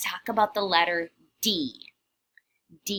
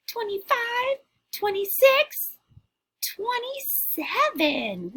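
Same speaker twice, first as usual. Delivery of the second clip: higher, louder witchy counting; counting like a little witch; 12 semitones higher, 4 dB louder, slower than usual. Shown as a demonstration. Witch leads the class count, higher and louder. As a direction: climb higher as the count goes on. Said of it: "Can you count like a little witch?".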